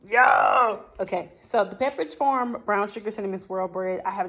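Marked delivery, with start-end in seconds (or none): 0.1-0.8 excited call. Real, not acted. Calls out excitedly.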